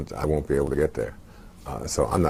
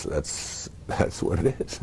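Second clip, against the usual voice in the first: emotional breathy laugh; 4 dB quieter, much slower than usual. Real, not acted. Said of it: "I get very emotional".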